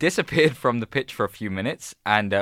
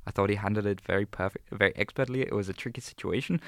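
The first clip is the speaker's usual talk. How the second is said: mock German accent; 3 semitones lower, 7 dB quieter, faster than usual. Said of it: "Do it".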